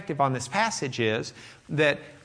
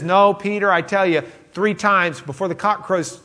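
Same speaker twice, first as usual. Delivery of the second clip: firm warning; 4 semitones higher, 5 dB louder than usual. Retold or imitated. Jesus warning Peter.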